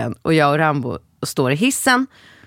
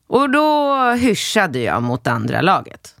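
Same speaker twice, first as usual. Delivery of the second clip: ordinary delivery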